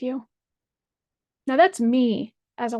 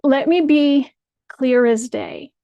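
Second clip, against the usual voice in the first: stern warning; 5 dB louder than usual. Real, not acted. Opening an angry public rebuke.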